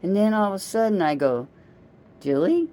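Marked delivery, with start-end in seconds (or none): 2.2-2.7 calling out. Retold or imitated. Calling niece while she prays.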